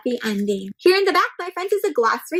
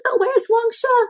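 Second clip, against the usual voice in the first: high, slow searching call; searching question; 10 semitones higher, slower than usual. Acted. Searching for the yellow bike.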